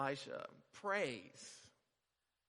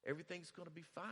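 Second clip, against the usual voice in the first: reassuring; 4 dB quieter, faster than usual. Retold or imitated. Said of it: "Elisha's like".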